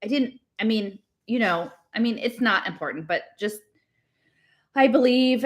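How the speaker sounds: halting, broken false starts; stumbling over words. Acted. Girl realises she insulted her friend, stumbling over her words. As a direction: backtrack awkwardly, restarting each phrase. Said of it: "she started stumbling all over her words".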